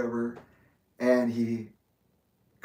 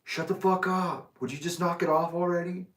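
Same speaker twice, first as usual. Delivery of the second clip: higher-pitched mock scolding; retold annoyed big kid; 5 semitones higher than usual. Big kid snapping at an upset younger kid, mock annoyed. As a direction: imitate a fed-up teenager telling someone off. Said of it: "this fucking big kid".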